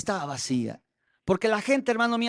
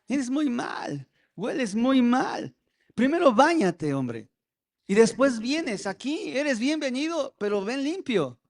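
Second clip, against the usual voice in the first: diácono despectivo; 4 semitones higher than usual. Retold or imitated. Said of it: "le dijo el diácono".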